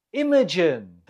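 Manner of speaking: "Imogen" with the first syllable IM stressed. Shown as a demonstration. Quiz teacher repeats the answer after explaining, "Imogen" stressed on first syllable. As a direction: say "Imogen" as IM-uh-jen, weight up front. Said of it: "The stress is on the first syllable".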